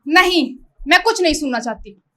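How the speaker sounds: agitated, emphatic protest; firm refusal. Acted. Woman refusing to hear a word, agitated.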